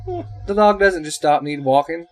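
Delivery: high-pitched, worked-up rant; excited. Real, not acted. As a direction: rave it high, all fired up. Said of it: "this excited about anything".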